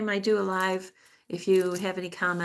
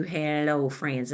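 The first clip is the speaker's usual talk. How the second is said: lightly mocked hello, falling away; a touch of the YouTuber greeting; imitated YouTuber greeting; slower than usual. Vlogger rejecting others' greeting, lightly imitated. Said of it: "I don't do".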